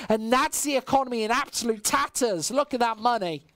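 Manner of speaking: esports caster calling the action; live play-by-play. Acted. Caster calling the round for stream chat, live play-by-play. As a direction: keep the round flowing, rising with the fights.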